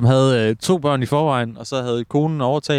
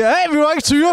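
high-pitched mock yell of protest; acted protest shout; 14 semitones higher than usual. Joking dad acts out stopping the rough ball play, high mock shout.

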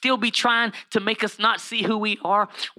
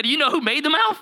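emphatic God; 8 semitones higher than usual. Retold or imitated. God challenging Moses again, emphatic and pointed. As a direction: press it like God calling Moses out. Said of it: "He said".

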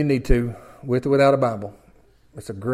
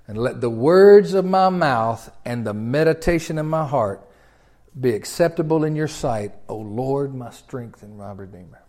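solemn prayer. Acted. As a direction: pray it reverently.

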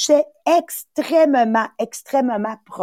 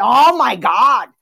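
mock shocked gasp; 5 dB louder, slower than usual. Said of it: "elle dit".

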